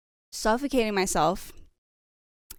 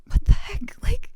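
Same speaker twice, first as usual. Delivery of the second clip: shocked exclamation; 13 semitones higher, 5 dB louder than usual. Retold or imitated. Friend shocked reaction.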